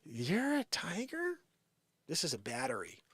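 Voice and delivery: loud, high hammed-up whoa; mock startled protest. Mocking someone startled by claimed tiger. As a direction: overplay the shock. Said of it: "than someone saying".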